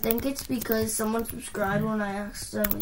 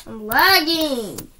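hyped gamer bro; 3 semitones higher, 7 dB louder, slower than usual. Real, not acted. Yelling about lag.

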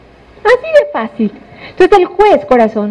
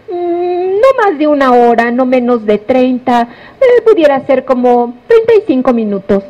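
hesitant estimating. Acted. Witness estimating the time for the prosecutor, hesitant. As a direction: work out a rough guess, slowing midway.

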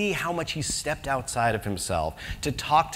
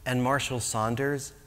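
mock preacher; 2 semitones lower, 3 dB quieter than usual. Mock evangelist pitch, hushed.

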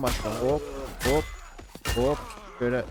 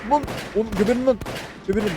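angry yell; 8 semitones higher, 4 dB louder than usual. Real, not acted. Yelling at enemies while shooting.

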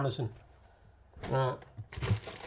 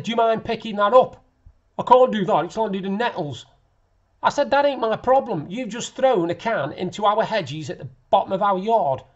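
raised, louder telling-off; retold shout; 3 semitones higher, 5 dB louder than usual. Resident confronting a man who threw a can, retold shout. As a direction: re-enact bawling someone out. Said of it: "I shouted to him".

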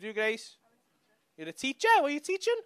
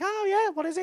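fake enthusiasm; 11 semitones higher than usual. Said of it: "You're like".

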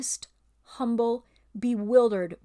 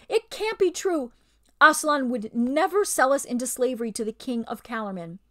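higher, louder protest; a touch of pleading beast; 3 semitones higher, 6 dB louder than usual. Acted. Beast protests to the ape, pleading. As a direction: plead against the lie.

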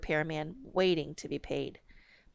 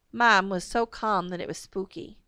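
ordinary delivery

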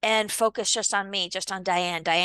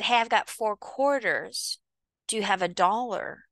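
friendly offer. Shown as a demonstration. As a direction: offer first, relaxed and fair. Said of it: "But if I said".

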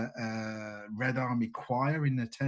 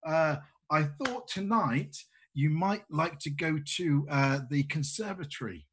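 Oksana's voice; 3 semitones higher than usual. Acted. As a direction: sweetly invite him out. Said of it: "and she says".

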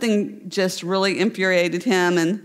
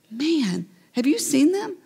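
admiring onlookers; 5 semitones higher than usual. Pretend. Imagined people praising them.

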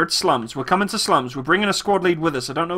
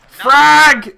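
sharp urgent yell, higher; grenade warning shout; 6 semitones higher, 7 dB louder than usual. Real, not acted. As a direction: bark it as a warning.

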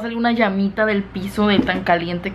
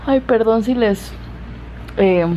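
ordinary delivery

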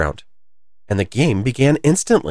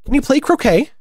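very high, piercing question; shrill it out across the crowd; high imperious shout; shouting queen; 4 dB louder than usual. A narrator's reading. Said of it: "shouted the queen".

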